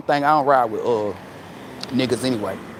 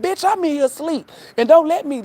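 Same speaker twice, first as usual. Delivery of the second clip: higher and louder, hammed-up fury; mock angry yell; 9 semitones higher, 5 dB louder than usual. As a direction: bark at him for calling late. Angry answer to disliked man's call.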